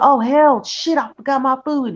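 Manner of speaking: mock panic as she remembers the food; imitating panicked neighbour. Imitating the neighbour realising her food is burning, high mock panic. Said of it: "She like".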